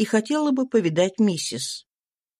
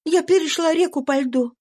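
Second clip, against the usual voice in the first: higher, tense voice of a runaway mother; fugitive mother's voice; 9 semitones higher than usual. A narrator's reading. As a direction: voice the exhausted slave woman, pitched up. Eliza voiced. (беглая мать, голос выше, напряжённо)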